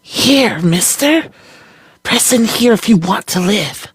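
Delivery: put-on high, sharp young girl calling; girl's voice. A narrator's reading. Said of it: "the girl exclaimed".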